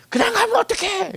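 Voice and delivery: loud high imitated yell; shouting after him. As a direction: call out after the young man as he walks away. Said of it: "그리고 소리를 지르더라고".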